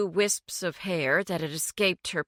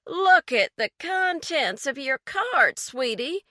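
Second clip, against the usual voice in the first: raised voice; 6 semitones higher than usual. A narrator's reading. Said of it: "her voice rising over the din of the crowd".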